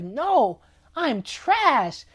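a light, casual take on Forky saying he's trash; just toss it off lightly as Forky; a lightly voiced little utensil feeling worthless; mopey Forky. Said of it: "He's like".

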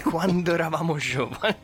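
mock quavering old-timer voice; trembling voice. Shown as a demonstration. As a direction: let the voice wobble, hammed-up nostalgia. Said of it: "Mi trema la voce quando lo dico".

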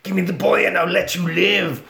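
lightly voiced killer-doll demand; milder doll threat. Doll's threat repeated, milder.

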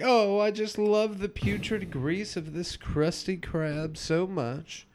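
Mr. Krabs gushing. Retold or imitated. Retelling the cartoon, Mr. Krabs gushing about the restaurant. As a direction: swoon over the grease. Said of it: "And he's like".

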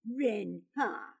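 dismissive, sceptical echo; scornful echo. Acted. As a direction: doubt the word "Friend" with a falling tune. Pyotr echoes the word with scorn.

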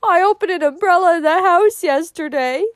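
high, loud fretful sniffing voice. A narrator's reading. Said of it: "sniffed Cousin Georgiana".

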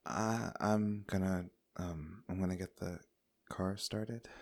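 very soft, halting mumbled exit line; awkward quiet excuse. Acted. Rhiannon slipping away to start the car, quiet and awkward. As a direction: excuse yourself softly, feeling for the words.

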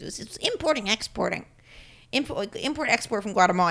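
lightly voiced mom impression. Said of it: "When I do my mom voice".

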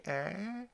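soft, high noncommittal noise; sheepish eh. Retold or imitated. Lois caught yelling Mel, soft high sheepish noise. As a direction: let out a small high, drawn-out eh.

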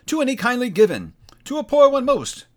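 high, loud otherworldly spirit voice; echoing ethereal energy being. Acted. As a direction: speak as a booming ghostly spirit. Spirit answers Scrooge.

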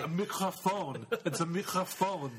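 put-on drawn out slowly, as if to a child; slow mock explanation. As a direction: spell out the obvious, slowly. Explaining the obvious to Nathan.

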